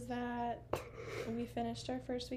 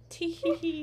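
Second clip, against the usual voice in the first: nervous laugh; 5 semitones higher, 4 dB louder than usual. Shown as a demonstration. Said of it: "I've also started this thing where I nervous laugh".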